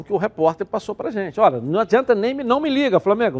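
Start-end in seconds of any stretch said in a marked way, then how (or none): 1.4-3.4 mock Goiás voice. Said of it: "voicing Goiás refusing".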